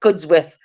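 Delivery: "Cudsworth" with an added S; slow Cudsworth, S in the middle; posh pronunciation. Shown as a demonstration. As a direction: say Cudsworth as CUDS-with. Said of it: "you're posh if you say".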